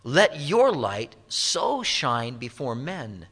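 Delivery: measured, solemn King James reading; a preacher reading scripture to the congregation. Acted. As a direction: read the old verses with weight. Reads King James scripture aloud.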